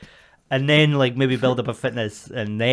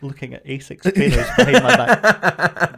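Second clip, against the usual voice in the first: laughing mock accusation; 3 dB louder than usual.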